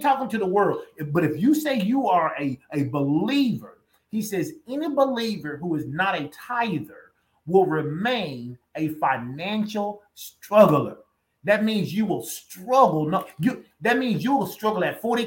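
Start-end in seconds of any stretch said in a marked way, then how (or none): 4.7-11.0 put-on slow, fuller Nigerian accent; Oyedepo's Nigerian accent. Pastor repeating the bishop's warning, slow Nigerian accent. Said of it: "he says it in that thick Nigerian accent".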